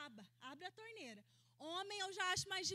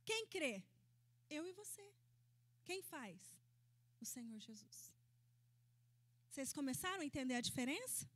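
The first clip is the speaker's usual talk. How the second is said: ordinary talk, nothing marked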